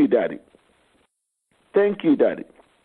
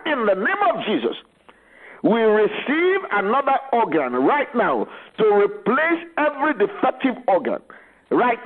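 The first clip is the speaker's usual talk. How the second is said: commanding prayer; 3 semitones higher than usual. Acted. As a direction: command the sickness to leave.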